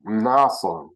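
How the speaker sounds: "Mnason" with a humming "m" before "nason"; "Mnason" with the m sounded through the nose; nasal onset. Shown as a demonstration. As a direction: start "Mnason" on a nasal hum. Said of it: "why would you have a nasal?".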